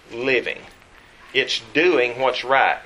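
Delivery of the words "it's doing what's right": "doing" drawn out slowly; slow, weighted stress on "doing". Shown as a demonstration. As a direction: lean on the word "doing". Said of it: "Emphasis on the word do".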